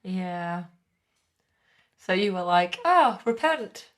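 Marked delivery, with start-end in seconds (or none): 2.8-3.9 slow, higher-pitched call to repentance; mock-pious priest. Co-player imagines the priest urging repentance, mock-pious. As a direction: draw it out like a sanctimonious preacher.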